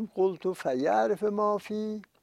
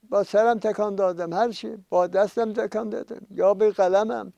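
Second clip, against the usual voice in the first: raised, higher voice of acted dismay; imitated outcry; 4 semitones higher, 5 dB louder than usual. Sinners finding every small misdeed recorded, imitated loud outcry. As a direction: call it out insistently as the dismayed sinners.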